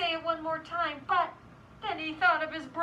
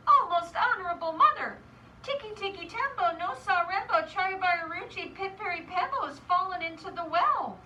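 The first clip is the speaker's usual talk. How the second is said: higher, sing-song rush of the long name; lightly voiced worried little boy; urgent child messenger; 3 semitones higher, 4 dB louder than usual. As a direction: report the news to mother in a rhythmic rush. Child urgently calls mother in story.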